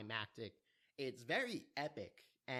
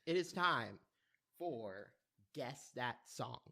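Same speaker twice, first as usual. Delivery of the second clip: game show announcer; 4 dB louder, slower than usual. Acted. Opening a game show segment.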